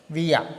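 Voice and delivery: "వియా" with open "యా" ending, no r; German pronunciation. Shown as a demonstration. Teacher answers what we pronounce, German vowel ending. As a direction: say "వియా", the final r becoming a vowel. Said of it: "ఏం పలుకుతామా?".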